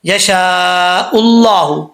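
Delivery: यशाउल्लाहु with a long held आ, slow; madd muttasil recitation. Shown as a demonstration. Teacher recites यशाउल्लाहु with the long madd. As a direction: stretch the madd over three alifs. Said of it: "ये मद मुत्तसिल है".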